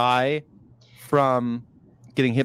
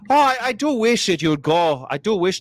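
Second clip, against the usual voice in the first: put-on Irish accent; 4 semitones higher, 3 dB louder than usual. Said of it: "Try an Irish accent".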